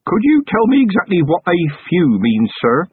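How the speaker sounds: put-on a scared young copper trying to sound brave; Feeney calling out nervously behind Vimes in the dark; nervous young constable. A narrator's reading. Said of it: "Feeney said".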